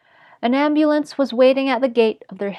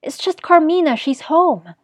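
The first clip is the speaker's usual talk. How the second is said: higher, lightly breezy reassurance; would-be casual, pitched up; forced nonchalance; 6 semitones higher, 3 dB louder than usual. A narrator's reading. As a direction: brush it off as casually as you can. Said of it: "in the most nonchalant tone".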